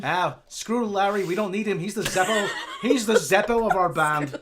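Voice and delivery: lightly hammed-up Irish rock star; mock-Irish rock singer dismissing someone; Irish accent. A rock singer brushing off an absent bandmate, mock Irish accent. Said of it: "do this Irish accent".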